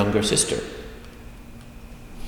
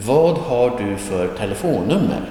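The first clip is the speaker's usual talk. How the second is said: careful model reading. Shown as a demonstration. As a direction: spell the question out carefully, word by word. Teacher models the question, then repeats faster.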